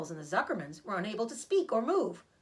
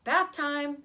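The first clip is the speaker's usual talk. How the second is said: higher and louder, bright call; cheerful; 6 semitones higher, 6 dB louder than usual. Acted. Zuckerman cheerfully calls out bath time for Wilbur, higher and louder. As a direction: announce it gladly. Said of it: "said Zuckerman cheerfully".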